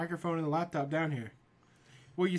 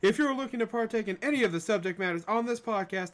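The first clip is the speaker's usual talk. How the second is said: booming ringmaster announcement; big top showman calling out; 5 semitones higher, 6 dB louder than usual. Acted. Podcast intro in showman voice.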